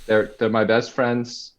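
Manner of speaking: lightly voiced Trump boasting; a hint of Trump's rally cadence; Trump impression. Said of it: "can do a great impression of him".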